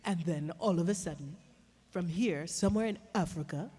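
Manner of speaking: lightly African-accented character voice; Zecora. Shown as a demonstration. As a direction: settle into a measured African accent. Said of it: "this is where Zecora came from".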